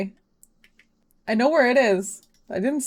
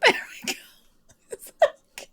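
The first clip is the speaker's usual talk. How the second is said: breathless laughing; 14 semitones higher, 4 dB quieter, faster than usual. Real, not acted. Laughing at the oversized hat.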